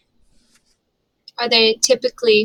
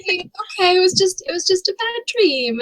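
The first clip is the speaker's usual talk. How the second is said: soothing; 8 semitones higher than usual. Acted. Gnome comforting kobold after bad dream, soothing. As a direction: comfort a frightened little creature.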